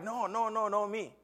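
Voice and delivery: high, rapid string of refusals; retold protest. Retold refusal of predicted future.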